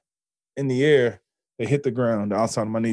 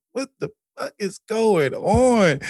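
awed disbelief; 10 semitones higher, slower than usual. Retold or imitated. Awe while reading books.

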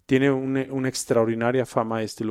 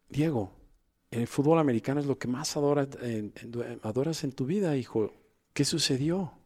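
gentle father; 3 semitones higher, 4 dB quieter than usual. Shown as a demonstration. Coach demos the caring way.

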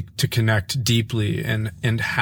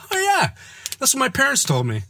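deadpan quote. Retold or imitated. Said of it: "he said".

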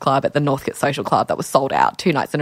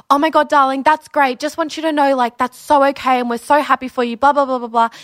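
high, louder gushing mum voice; imitating mum; 8 semitones higher, 5 dB louder than usual. Mum reacting to her coming out, high gushing imitation. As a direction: gush like an excited mum. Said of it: "And Mum was like".

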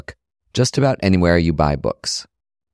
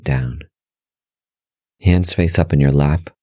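guided meditation; 4 semitones lower than usual. Real, not acted. Host leading listeners through breath meditation, calm guided-meditation voice. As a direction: guide them gently in short, measured phrases, pitch settled and level.

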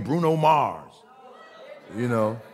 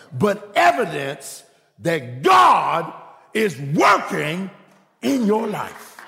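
preaching; slower than usual. Real, not acted. Preaching climax.

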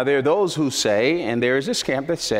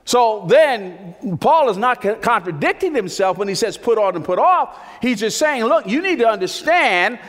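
high, loud, rising preacher's cry; impassioned pulpit delivery; full-force preaching; 5 semitones higher, 4 dB louder than usual. Acted. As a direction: preach it out, voice climbing. Preacher building to climax.

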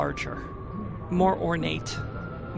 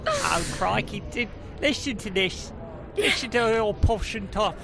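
pixie; 4 semitones higher than usual. Acted. Gnome cousin mocks posh voice.

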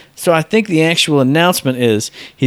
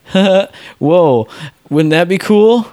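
higher-pitched playful wonder; mock amazement; 4 semitones higher, much slower than usual. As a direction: act out a showman's staged surprise. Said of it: "And he'll go".

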